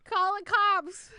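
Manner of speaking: slow, loud mock panic; panicked shout. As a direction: yell for help in pretend fright. Mock panic at intruder joke.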